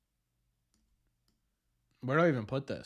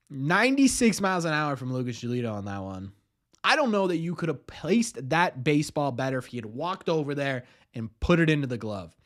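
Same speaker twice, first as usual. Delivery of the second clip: announcer voice; 2 semitones lower than usual. Acted. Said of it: "Do you like my announcer voice".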